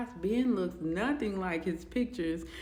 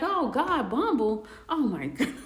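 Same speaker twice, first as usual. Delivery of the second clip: higher and louder, groaning through a laugh; laughing disbelief; 5 semitones higher, 5 dB louder than usual. Retold or imitated. Friend retelling his groan at the dating app, laughing. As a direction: recoil at the idea, laughing. Friends suggest Bumble again.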